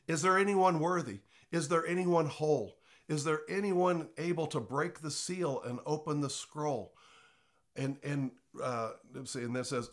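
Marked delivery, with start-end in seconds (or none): 0.1-6.9 louder lyric. Shown as a demonstration. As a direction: proclaim the lines. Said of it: "let's change that song".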